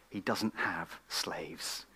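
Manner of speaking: slow, whispered emphasis; hushed whisper. Real, not acted. Preacher whispering to the congregation, slow and hushed. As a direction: let it fall to a slow whisper.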